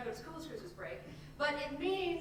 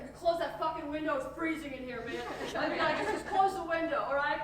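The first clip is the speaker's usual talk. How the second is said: raised voice building to a yell; mock rage, climbing and exploding at the end; acted angry outburst; 4 semitones higher, 10 dB louder than usual. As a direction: escalate from irritated order to loud, high shout. Acted window quarrel, building rage.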